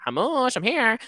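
high sing-song call; sing-song greeting. Retold or imitated. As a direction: call out cheerfully. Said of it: "she'll be like".

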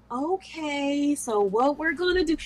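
put-on high condescending sing-song, like talking to a toddler; sing-songy voice. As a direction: imitate a teacher talking down to parents. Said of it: "really using a sing-songy voice".

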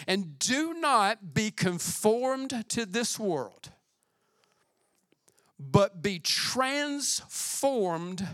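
slow, solemn scripture read; unhurried, reverent reading of the verse. Acted. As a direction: draw each phrase out slowly. Reads scripture slowly.

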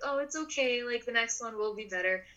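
pretend disappointment. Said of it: "pretended to be a little disappointed".

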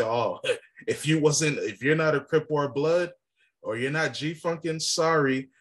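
mocking. Mocking stereotype of others.

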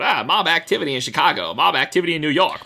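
brisk, punchy newsreel announcer; old-timey announcer. Retold or imitated. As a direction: rattle it off like a vintage radio newsman. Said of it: "the old-timey announcers talking about".

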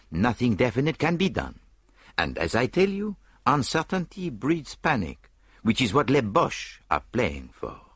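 detective explaining the kidnap logic, lively; Poirot's voice. Acted. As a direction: lecture with excited gestures in the voice.

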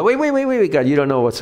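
hammed-up alarm, pleading with God to stop; mock panicked protest. Protesting to God about a hard task, in a hammed-up alarmed rush.

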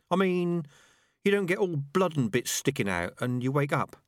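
high-pitched rat objecting; doubting rat. Acted. Rat objecting to the idea of death as sleep, doubtful.

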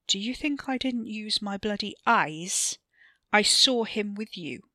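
accusing, voice climbing; angry. Acted. Ricky angrily confronts Wes.

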